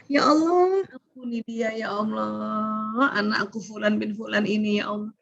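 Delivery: a heartfelt prayer that trails off softly; pleading prayer. Shown as a demonstration.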